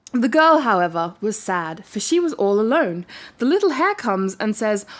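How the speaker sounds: steady storybook reading voice; story narration. A narrator's reading. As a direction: read it like a bedtime tale. Reading a fairy tale aloud.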